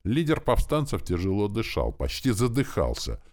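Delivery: ordinary delivery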